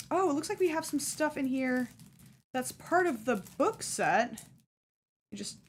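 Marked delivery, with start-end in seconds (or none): 5.3-5.6 talking through hiccups; speaking with the hiccups. Real, not acted. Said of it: "I got the hiccups today so bad".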